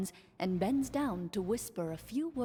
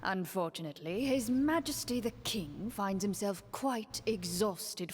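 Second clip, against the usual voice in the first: lightly voiced courtly minister, measured; a hint of a scheming prime minister; smooth minister. Minister speaks for the king.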